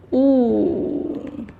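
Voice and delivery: 不 drawn out in a falling tone. Shown as a demonstration. Teacher shows learners the tone of 不, falling and drawn out. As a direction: stretch 不 downward as a demonstration. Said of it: "it is a falling tone".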